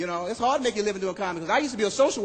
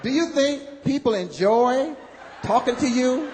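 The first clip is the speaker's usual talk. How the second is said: put-on girl going off; 4 semitones higher, slower than usual. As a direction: tell him off, disgusted. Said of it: "She just went off on me".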